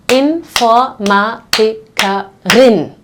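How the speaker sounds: Informatikerin said slowly with a clear R before the last vowel; R pronounced. Shown as a demonstration. Teacher contrasting the female form to show the spoken R. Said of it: "here you actually have to pronounce the R".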